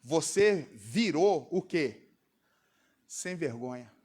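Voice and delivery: slow, low scolding mother; mother scolding her son, slow and low. Retold or imitated. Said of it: "minha mãe falava assim".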